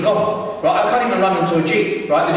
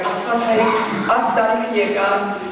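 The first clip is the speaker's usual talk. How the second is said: frantic praying; much faster than usual. Retold or imitated. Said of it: "I'm praying to God".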